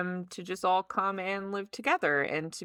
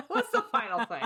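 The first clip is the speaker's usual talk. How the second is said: laughing; 4 semitones higher, faster than usual. Real, not acted.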